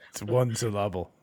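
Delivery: "syllable" stressed on the middle, sil-LAH-ble; mispronounced syllable. Acted. Correcting a friend on a name, "syllable" said sil-LAH-ble. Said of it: "I put the wrong emphasis on the wrong syllable".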